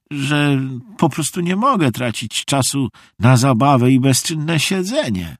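high-pitched, leisurely lady; eccentric visiting lady. A narrator's reading. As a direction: play an odd guest, pitched high and unhurried.

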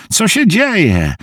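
a frightened rush of questions; alarmed friend. Acted. Harvey fears Bruce is in danger, alarmed.

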